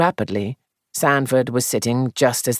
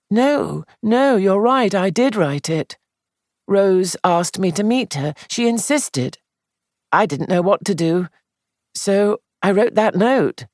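higher, anxious, upset voice; fretful, guilty young man, voiced high; distressed young man; 8 semitones higher than usual. Sandford confesses to the note.

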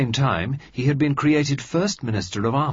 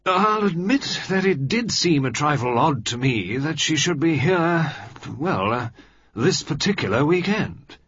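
slowly; 7 semitones higher, 3 dB louder than usual. A narrator's reading. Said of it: "Carrington said slowly".

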